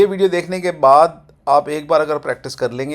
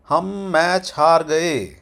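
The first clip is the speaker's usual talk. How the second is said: drawn-out, falling mild letdown; slightly disappointed; 3 semitones higher, 3 dB louder, much slower than usual. Shown as a demonstration. Teacher modelling a lost-match sentence, slightly disappointed. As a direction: stretch the words slowly into a disappointed fall. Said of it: "थोड़ा सा निराशाजनक style में".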